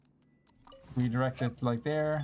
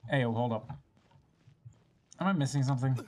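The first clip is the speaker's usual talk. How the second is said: ordinary talk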